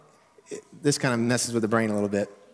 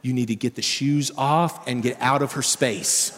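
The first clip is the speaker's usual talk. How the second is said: stern; 2 semitones lower than usual. Retold or imitated. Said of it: "It's even stronger".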